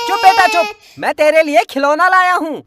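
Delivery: put-on child sobbing through the words; crying. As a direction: let the sobs break into the line. Child crying while father soothes.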